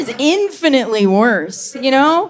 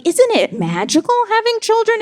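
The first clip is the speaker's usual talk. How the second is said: much higher sing-song; gushing tired mom; 13 semitones higher than usual. Retold or imitated. Worn-out mom to the comic, high fake cheer. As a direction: chirp it like an exhausted mom pretending bliss. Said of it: "she's like".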